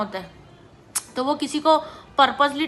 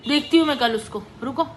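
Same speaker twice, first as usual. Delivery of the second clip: indignant mother; faster than usual. Retold or imitated. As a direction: imitate a mom taking her child's side against the teacher. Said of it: "mummy उसको क्या बोलती है".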